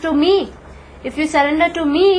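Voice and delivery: emphatic, with "me" stressed; Krishna. Retold or imitated. Krishna pointing to his chest on the battlefield, emphatic. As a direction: press firmly on "to me". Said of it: "He writes that emphatically".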